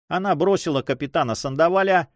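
usual speaking voice

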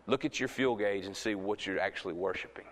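low, soft and sober; quiet challenge. Real, not acted. Preacher asks the church what they worship, quiet challenge. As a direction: bring the voice down to a searching quiet.

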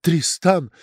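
loud, high, drawn-out mock rapture; slow theatrical gasp of admiration; theatrical swoon. A narrator's reading. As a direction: sigh the name like a stage heroine. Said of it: "театрально ахнули".

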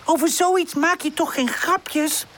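slow, high-pitched reproach; high, mildly indignant storybook voice; cross. A narrator's reading. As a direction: tell off the joker slowly. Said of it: "Buurpoes kijkt boos".

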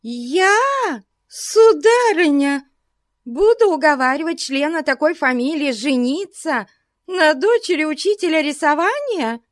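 high, wounded companion; protest, hurt; offended protest. A narrator's reading. Briggs protesting meekly. (обиженно возражая)

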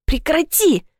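high sharp stop; sharp protest. Acted. Heroine stopping Platonov's kiss, high and sharp. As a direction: push him off with one word.

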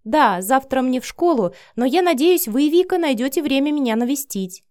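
put-on high-pitched, lively girlish voice; polite young girl. A narrator's reading. Cindy inviting Vika to visit her, high girlish voice. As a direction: chirp it hopefully, high and polite. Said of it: "говорила на русском с лёгким французским акцентом".

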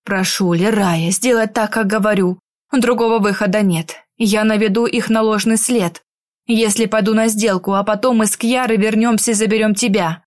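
a hint of a calm protector; calm male companion. Werewolf explains the plan. (спокойный мужской голос)

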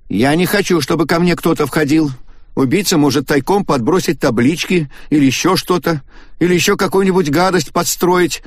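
голос персонажа заметно выше; встревоженно объясняет; Агата опасается. A narrator's reading. (Агата встревоженно делится опасениями)

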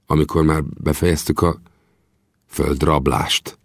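slightly hurt. Acted. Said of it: "kérdeztem kissé megbántottan".

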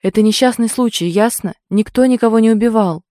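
loud, insistent declaration; forceful shout. Acted. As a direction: drive it home over her screams. Egor shouting down the girl.

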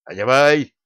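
loud barked command; loud order to put on the coat. A narrator's reading. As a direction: bark it like a soldier. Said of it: "рявкнул дружинник".

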